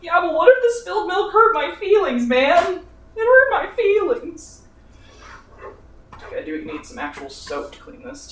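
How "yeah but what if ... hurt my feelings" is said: much higher, whining about spilled milk; high mock-pouty whine; mock whiny hurt. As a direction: play a wounded child, half joking. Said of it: "gonna cry about it".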